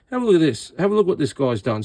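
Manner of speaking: exclaiming. Real, not acted. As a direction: call attention, startled. Showing another bodge.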